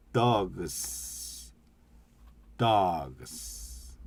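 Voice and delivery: dogs with each sound separate, d-o-g-s, ending 스; spelled-out English. Shown as a demonstration. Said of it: "발음을 이렇게 풀어서 읽는 거예요". (dogs를 한 소리씩 풀어서)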